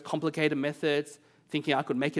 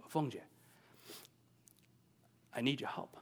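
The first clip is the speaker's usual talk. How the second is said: put-on childlike voice; 2 semitones lower, 11 dB quieter than usual. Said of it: "in this childlike voice".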